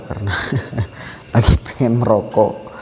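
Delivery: talking while smoking; cigarette in mouth. Real, not acted. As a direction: speak around a cigarette, relaxed. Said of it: "saya sambil merokok ya".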